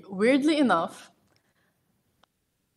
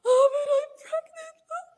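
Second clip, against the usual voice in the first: much higher, louder stunned exclaim; shocked announcement; 6 dB louder than usual. Retold or imitated. Wife announcing the positive test to husband, high loud exclaim. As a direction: burst out the news at the bathroom door. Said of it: "I'm like".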